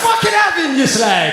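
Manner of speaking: put-on drunken white lad hollering high; rowdy white bloke. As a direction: bellow it like a lad on the terraces. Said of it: "White people are like".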